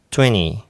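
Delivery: "twenty" said as "tweny", no T burst; T dropped. Shown as a demonstration. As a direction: skip the T release in "twenty". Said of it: "パターンの三つ目". (Tの破裂なしの「twenty」)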